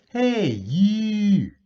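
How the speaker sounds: high, loud accusing call; servant calling out. Acted. Servant girl spotting Peter by the fire, loud high call. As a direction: call him out across the fire. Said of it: "said one of the high priest's servants".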